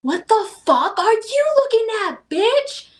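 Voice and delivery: high, loud snarl at the hostess; crazy lady yelling. Retold or imitated. Hostess retells lady screaming at her, high loud imitation. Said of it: "she's like".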